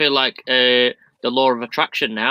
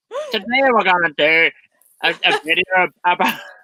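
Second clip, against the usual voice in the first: put-on Northern Irish accent; 6 semitones higher, 3 dB louder than usual. Claiming a potato bread video idea, in a put-on northern irish accent. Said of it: "I'll put an accent".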